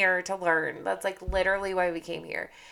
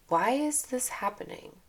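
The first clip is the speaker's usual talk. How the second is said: higher, open curious question; lightly higher curious why; curious wonder; 4 semitones higher than usual. Shown as a demonstration. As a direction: ask it with bright curiosity. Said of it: "to, Oh".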